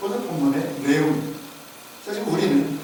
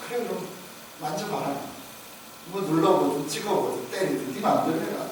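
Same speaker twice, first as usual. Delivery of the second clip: softer, yielding voice of a patient master; gentle giving-in; 7 dB quieter than usual. Acted. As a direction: imitate Jesus quietly letting the doubter have his way. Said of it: "보고도 믿지 못한 도마에게 어떻게 합니까".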